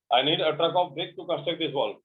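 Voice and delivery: very slow, every word separate; slow model sentence. Shown as a demonstration. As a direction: dictate it slowly to the class. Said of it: "teacher restates model sentence slowly". (धीरे-धीरे उदाहरण वाक्य)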